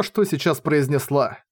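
usual speaking voice

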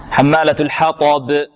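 حمالة الحطب drawn out in tajwid; slow recitation. Shown as a demonstration. Teacher reciting the phrase slowly for the student. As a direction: read حمالة slowly with doubled mim. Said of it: "teacher models recitation".

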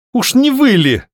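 high, mocking question; snide, haughty. A narrator's reading. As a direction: look down on him and tease. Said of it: "ехидно и высокомерно осведомилась девушка".

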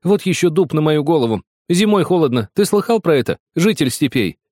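high, angry rant, still yelling; shouting. Acted. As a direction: keep scolding him at full pitch. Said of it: "закричала вдруг Маринка". (высокий сердитый крик)

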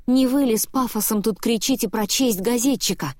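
plain reading voice

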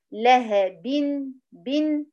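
لهب ending in a clear held bin; correct kasra. Shown as a demonstration. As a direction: give بن a true i and linger on the n. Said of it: "وليس لهب".

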